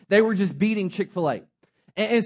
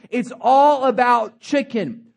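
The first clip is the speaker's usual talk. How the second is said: lightly voiced elderly founder insisting; firm founder. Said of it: "he said".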